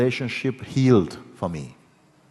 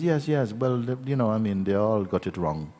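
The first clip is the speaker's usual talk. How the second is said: dismissive mother; 3 semitones higher than usual. Retold or imitated. Mother defending her judgment to her child, mildly dismissive. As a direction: imitate a mother waving away the challenge.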